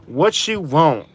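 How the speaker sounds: slow, drawn-out curt order-taking; imitated rude server. Fast food worker to customer at the speaker, mock rude. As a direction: mimic an uninterested drive-thru worker, dragging it out. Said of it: "Their customer service sucks".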